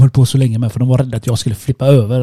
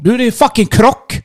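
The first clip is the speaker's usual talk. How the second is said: higher, slow, incredulous outburst; exasperated exclaim; 9 semitones higher than usual. Real, not acted. Telling a friend of yet another mishap, incredulous. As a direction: land the punchline with disbelief. Climax of the bad-luck story.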